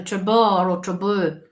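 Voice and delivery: "trouble" as "truh-BAR", then as "truh-BUH"; trying two pronunciations. Shown as a demonstration. Medium puzzling over the word heard, trying "trouble" as truh-BAR or truh-BUH. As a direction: sound out "trouble" two foreign ways, second syllable stressed. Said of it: "It's either trouble or trouble".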